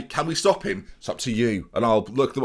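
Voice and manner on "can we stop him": rehearsed meeting line. Shown as a demonstration. Manager trying out his team talk question, lifted higher. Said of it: "Or maybe I'll say".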